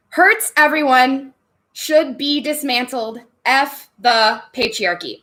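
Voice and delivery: deliberate, word by word; spaced out as if counting each word; slow, measured answer. Real, not acted. Streamer answering Kate in limited words, slow and measured.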